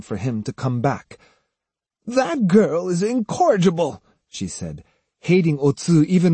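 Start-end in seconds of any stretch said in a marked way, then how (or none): 2.0-4.0 put-on high-pitched, indignant old woman's verdict; fuming old woman. A narrator's reading. Osugi hating Otsu even more, indignant and high. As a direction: spit out disapproval in a raised voice.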